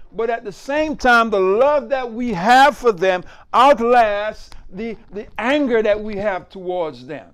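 punchy, forceful sermon delivery; emphatic preaching. Real, not acted. Pastor assuring the congregation of God's mercy, emphatic preaching.

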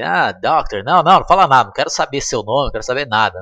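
panicked scientist cutting Marty off; frantic refusal. Retold or imitated. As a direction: wave him off in a panic. Doc frantically refusing information.

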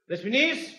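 soft, high-pitched calling out; tentative call. Acted. Husband told to call the maid, calls tentatively. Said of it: "Άντε τώρα φώναξε".

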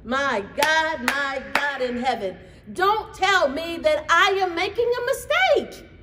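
sung-out, rising to high and loud; preaching at full force; fervent cry. Real, not acted. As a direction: lift it like a praise shout.

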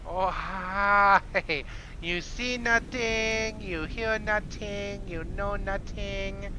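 high, slow, hammed-up mock Asian accent; crappy Asian accent. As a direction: put on a bad Asian accent, high-pitched and drawn out. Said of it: "went Asian crappy accent with that".

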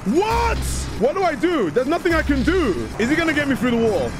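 high, panicked questions; scared horror game streamer. Real, not acted. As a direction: panic as the monster closes in.

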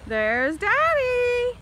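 slow, loud and bright; excited greeting. Real, not acted. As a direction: call out happily.

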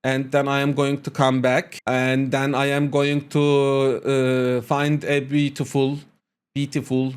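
English in a blatant Turkish accent; slow, plodding Turkish-accented English; thick Turkish accent. Shown as a demonstration. Learner introducing himself and his England trip, Turkish accent. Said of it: "çok sırıtan bir Türk aksanı yapıyorum".

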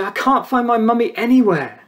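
preacher voicing a lost child in the supermarket, a light tearful little voice.

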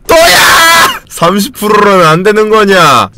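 whining yell on the edge of tears; frustrated crying shout. Real, not acted. Gamer after another failed interview, whining crying shout. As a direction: wail it at the unfair odds. Failing again at thirty percent.

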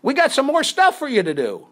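high attempted Australian, fading out; badly held Australian caller; Australian assistant director, accent lost; slipping Australian accent. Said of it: "What happened to your Australian accent?".

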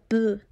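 P voiced as a sound, not a name; letter sound demo. Shown as a demonstration. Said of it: "se pronuncia".

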